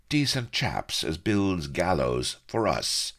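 slow, high sardonic retort; drawn-out, rough-spoken sneer; scornful pirate. A narrator's reading. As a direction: throw it back with pirate scorn. Pirate scorns hero's appeal.

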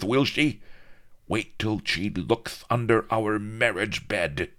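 high, loud gloating voice; leering viceroy. A narrator's reading. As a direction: gloat over the wedding.

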